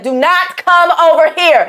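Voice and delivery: slow, high, emphatic order; retold stern warning. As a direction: warn them off word by word. Retold warning to approaching kid.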